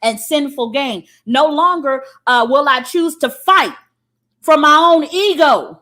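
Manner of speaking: solemn vow. Retold or imitated. A man renouncing selfishness, vow building loud. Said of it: "the symbolism of a man saying".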